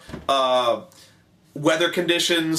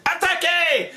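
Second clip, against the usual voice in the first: very high mock battle cry; cartoon French commander, pitched way up; Napoleon; 14 semitones higher, slower than usual. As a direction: order the charge in hammed-up French. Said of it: "he goes".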